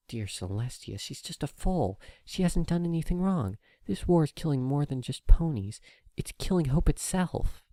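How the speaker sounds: officer lamenting the war to herself; sorrowful officer. Acted. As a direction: mourn for the innocent foal.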